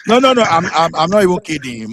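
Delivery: high, loud insistent no; loud protest. Real, not acted. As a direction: cut in loudly. Protesting loudly he's not kidding.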